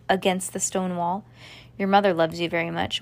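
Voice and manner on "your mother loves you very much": usual speaking voice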